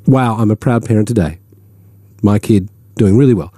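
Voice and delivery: understated, matter-of-fact boast; plain brag. Acted. Host modelling an honest parent's post, plainly stated. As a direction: state the pride simply, as bare fact. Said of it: "a plain statement of fact".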